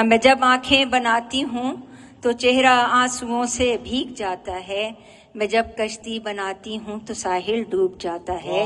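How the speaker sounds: measured nazm recital, each phrase set apart; poetry recitation. Acted. Poet presenting a nazm about drawing eyes, poetry recitation. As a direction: recite line by line with lingering endings.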